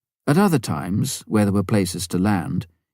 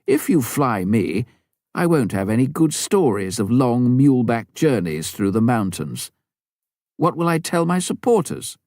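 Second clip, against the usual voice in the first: joking; 4 semitones higher than usual. Acted. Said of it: "Then he added jokingly".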